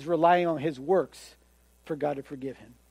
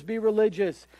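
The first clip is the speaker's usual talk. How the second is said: softer echo; 3 semitones higher than usual. Retold or imitated. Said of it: "they're telling you".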